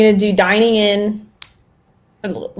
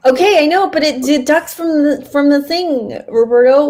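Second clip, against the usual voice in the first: higher-pitched, indignant pushback; exasperated protest; 6 semitones higher than usual. Real, not acted. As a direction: argue the point, fed up but laughing. Protesting the rule to friend.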